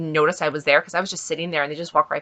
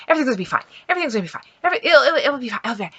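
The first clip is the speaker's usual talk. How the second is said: higher, anxious family member repeating comfort; mock-worried family voice soothing a patient; nervous reassurance; 6 semitones higher, much faster than usual. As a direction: imitate a worried relative talking themselves calm. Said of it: "they obviously were really worried, really nervous".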